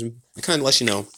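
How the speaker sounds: talking around a lollipop; words round a candy in the mouth; sucking a lollipop. Real, not acted. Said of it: "sorry, I'm eating, eating this lollipop".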